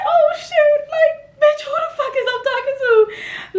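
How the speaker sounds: high frantic what-is-happening; panicked high disbelief. Retold or imitated. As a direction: voice jumps up in alarm. Panicked confusion retold.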